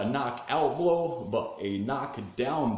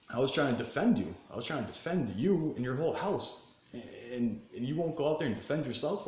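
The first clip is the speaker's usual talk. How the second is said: higher-pitched, worked-up protest; fired up; 4 semitones higher than usual. Real, not acted. Confronting the friend he tried to defend, fired up. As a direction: plead your grievance, still stung. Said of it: "I get fired up about it still".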